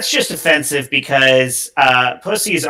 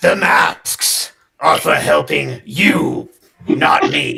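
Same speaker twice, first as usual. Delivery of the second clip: very low, slow, dragged-out raspy voice. Repeating a point about masks when asked: Batman voice. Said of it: "Can you say that in a Batman voice?".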